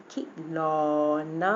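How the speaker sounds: खिलौना with a short खि, then long लौ and ना; quick first syllable. Shown as a demonstration. Teacher shows short vowel, खिलौना with quick खि, long ending. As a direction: snap खि short, stretch the rest of खिलौना. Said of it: "तो वो हम जल्दी से पढ़ लेंगे".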